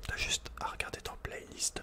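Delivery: usual speaking voice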